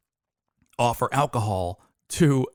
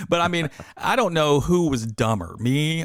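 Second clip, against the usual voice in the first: laughing, louder through the words; amused and a bit louder; 6 semitones higher, 6 dB louder than usual. Real, not acted. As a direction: chuckle while saying it. Laughs mid-sentence.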